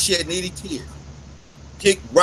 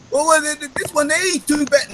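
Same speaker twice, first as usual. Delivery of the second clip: mock objector; 8 semitones higher than usual. Mock question from imagined critic.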